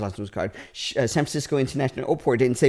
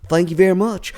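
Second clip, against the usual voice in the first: put-on Southern accent. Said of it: "Southern accent".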